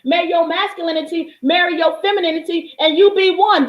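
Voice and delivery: a preacher lifting the pitch to drive the message home; rising preaching. Acted. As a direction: preach it out to the crowd. Preaching on the single eye.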